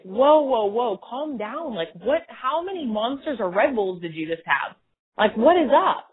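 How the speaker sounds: mock-startled whoa, then slowed calm down; startled friend. Friend reacting to a hyped caller, startled. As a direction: play the friend taken aback. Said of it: "your friend is gonna be like".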